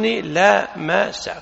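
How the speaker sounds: "لا مس" slowly split as la, ma, sa; word pattern sounded out. Shown as a demonstration. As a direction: break "لا مس" into three slow syllables, la-ma-sa. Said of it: "بوزن".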